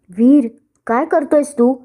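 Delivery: high, slow cry of alarm; shout. Acted. Bride shouting at the groom who hit the guest. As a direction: cry out in shock. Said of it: "Kavya ओरडली".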